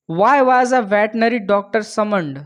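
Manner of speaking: reads each word slowly and clearly; slow question reading. Shown as a demonstration. Teacher reading the question slowly to students. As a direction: spell the question out slowly for the class.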